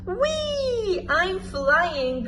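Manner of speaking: high, delighted squeal; joyful whee. A narrator's reading. Freddy flying at last, high and joyful. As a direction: whoop as the plane lifts off. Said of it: "cried Freddy".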